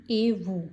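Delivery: "ए वू" with no t sound before "वू"; French "ए वू", t left silent. Shown as a demonstration. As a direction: drop the t, say "ए वू" as ay voo. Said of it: "टी नहीं बोलेगी".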